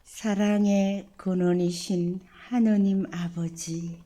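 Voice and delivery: slow, solemn prayer to God the Father. Acted. Priest leading the parish family in opening prayer, solemn and devout. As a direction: pray it humbly, each phrase laid down with care.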